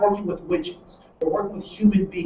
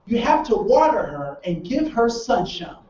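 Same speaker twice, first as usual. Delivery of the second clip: gentle advice; slower than usual. Retold or imitated. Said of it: "this is what comes out".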